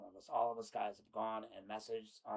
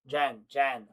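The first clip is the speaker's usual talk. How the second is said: loud pleading call; 9 dB louder than usual. Acted. Reading his desperate texts.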